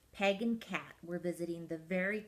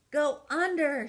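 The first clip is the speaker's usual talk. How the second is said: raised, higher call to go under; coach's shout; 7 semitones higher, 8 dB louder than usual. Acted. Coach Peg shouts the next order to the penguin. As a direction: call it out across the slope. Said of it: "shouted Peg".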